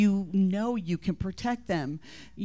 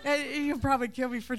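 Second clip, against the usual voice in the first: real laughter, higher and louder; laughing; 12 semitones higher, 6 dB louder than usual. Real, not acted. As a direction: laugh through the words. Laughing through the story.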